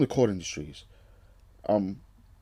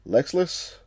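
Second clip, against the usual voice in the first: surprised echo; 4 semitones higher than usual. Real, not acted.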